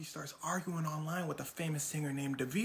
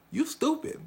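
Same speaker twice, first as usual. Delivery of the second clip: mock taunt; 10 semitones higher, 5 dB louder than usual. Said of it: "He like".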